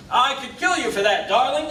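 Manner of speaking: mildly acted teasing threat; playful mock threat. Juror voicing an everyday threat to a darling, playfully.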